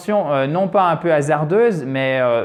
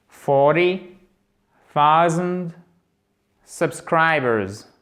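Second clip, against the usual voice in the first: forty, thousand, subscribers with long pauses between; word-by-word model; much slower than usual. Shown as a demonstration. Teacher models the whole phrase for learners, word by word. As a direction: separate each word, drawing out subscribers. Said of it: "Ce qui nous donnera".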